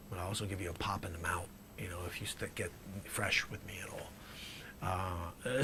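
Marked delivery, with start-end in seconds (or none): 0.1-4.1 menacing hush. Acted. Dealer threatens, hushed.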